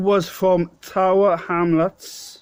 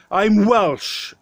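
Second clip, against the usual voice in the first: forced past a stutter; 3 semitones higher than usual. Real, not acted. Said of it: "I had to force that out".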